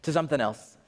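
sidle away from the subject; mock casual dodge; evasive shrug-off. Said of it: "we're like".

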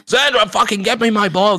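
high asshole-star voice, demanding; Hollywood Druid. Acted. Asshole alter ego ordering Sandra to fetch, high demanding. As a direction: snap back into the obnoxious diva. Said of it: "Hollywood Druid, I'm calling it".

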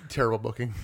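unvoiced whisper, barely there; whispered aside. Real, not acted. Podcaster confiding to his co-host, whispered. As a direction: drop to a whisper as if it shouldn't be said. Hushed aside about a shoot accident.

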